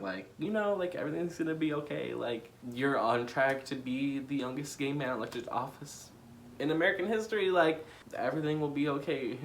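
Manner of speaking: welling up while consoling; emotional reassurance. Retold or imitated. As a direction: reassure your younger self through happy tears. Tearfully reassuring his younger self.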